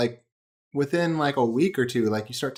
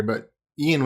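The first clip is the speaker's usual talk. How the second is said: normal talking voice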